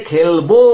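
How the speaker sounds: "খেলবো" with a long, stressed "বো"; stressed suffix. Shown as a demonstration. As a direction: hold the last vowel of "খেলবো". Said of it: "ওবো দিয়ে". ("খেলবো"-র "বো" টেনে জোর দিয়ে)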